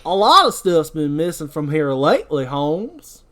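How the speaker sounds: gruff morgue attendant voice; Ernest's voice. Acted. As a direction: grumble it like the attendant. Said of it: "that should be Ernest's voice".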